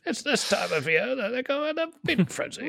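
David Attenborough. Retold or imitated. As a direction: wildlife narrator whispering in your ear. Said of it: "that's a good David Attenborough".

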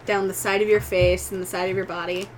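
game master's suspense narration. A narrator's reading. Game master revealing a monster to player, halting suspenseful narration. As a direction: draw out the eerie reveal piece by piece.

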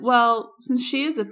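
pointed suggestion. Retold or imitated. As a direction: needle the waitress politely. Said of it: "And I went".

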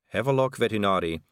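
ordinary delivery

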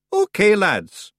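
loud, slow high Scottish call; rally the lads; Scottish accent. Acted. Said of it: "he announced".

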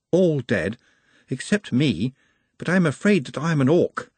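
careful, halting confession; apologetic Nut. Acted. Nut admits to being an orc, apologetic. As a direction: own up reluctantly, pausing between phrases.

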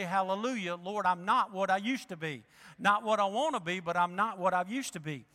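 joyful shout. Shown as a demonstration. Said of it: "a good place to say".

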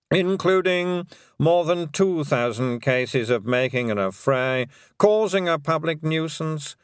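dry solemn lawyer; formal lawyer. Acted. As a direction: read the charges gravely. Lawyer reads charges.

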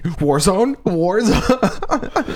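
eager calling out. Retold or imitated. Imitating Jake calling out.

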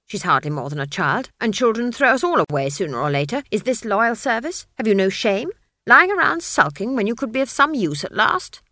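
put-on furious old witch scolding; berating witch. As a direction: shame the sulking staff. Granny berates the staff.

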